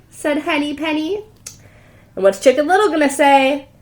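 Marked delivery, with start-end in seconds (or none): none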